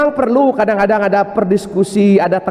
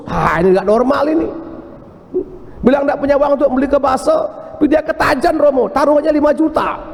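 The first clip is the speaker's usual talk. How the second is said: complaining wife; 6 semitones higher than usual. Retold or imitated. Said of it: "wife complains to the priest".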